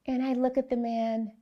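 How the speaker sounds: ordinary talk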